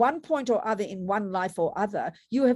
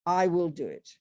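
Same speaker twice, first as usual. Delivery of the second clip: brave attitude; 2 semitones higher, slower than usual. Retold or imitated. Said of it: "This brave attitude".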